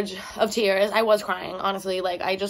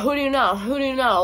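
higher-pitched jokey grilling; playful, repeated mock questioning; being funny; 5 semitones higher than usual. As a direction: ask it teasingly, pitched up. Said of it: "Like, being funny".

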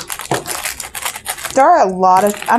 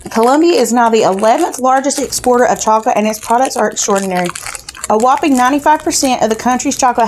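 booklet read-aloud. Acted. Reads the snack booklet aloud.

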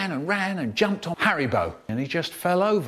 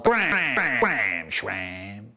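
mock snarl falling low; 7 semitones lower, much slower than usual. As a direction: snarl it out, sinking in pitch. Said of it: "and Sheddle snarled".

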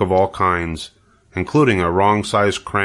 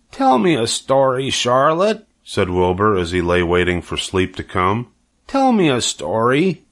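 pleading piglet. Acted. Sleepy pig asks for story.

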